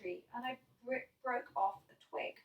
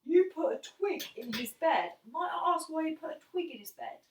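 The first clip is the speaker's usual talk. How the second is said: stern dad; 4 semitones higher, 5 dB louder than usual. Retold or imitated. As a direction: repeat it like a dad who can't believe it. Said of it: "And my dad goes".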